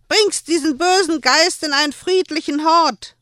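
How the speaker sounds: hoch und laut gekeift; wütend. Acted. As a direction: keif ihn voller Angst und Zorn an. Händlerin beschimpft Joel. (Händlerin keift Joel wütend an)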